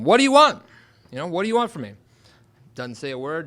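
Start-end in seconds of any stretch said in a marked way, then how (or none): 0.0-0.6 high, loud shout out to someone; yelled challenge. Retold or imitated. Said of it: "I yell out to him". 1.3-1.9 raised pitch without a full shout; milder retold yell. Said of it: "I yell out to him".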